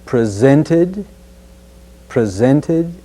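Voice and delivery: "presented" with a crisp t after the n; clear t sound. Shown as a demonstration. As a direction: keep the t in "presented". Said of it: "include the t sound in".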